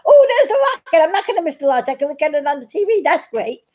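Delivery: retold delight at not missing the launch; excited. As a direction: gush over the rocket on the TV. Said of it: "I came in a little excited".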